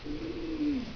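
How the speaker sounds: high, uneasy "Mm" then asking for the bill; a friend wanting out fast; awkward friend. Retold or imitated. Friends awkwardly want to leave.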